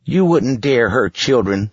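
put-on high, firm boy's voice; a brave boy standing firm. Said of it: "said Casey firmly".

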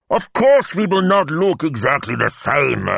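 a hint of muffled impatience; impatient. A narrator's reading. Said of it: "he said, impatient".

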